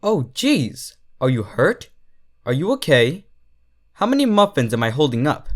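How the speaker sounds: fast, worried stallion voice; rushed apologies. Acted. Brown stallion apologizing to Derpy, fast and worried. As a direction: rattle off the apologies miles a minute. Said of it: "going miles a minute saying apologies".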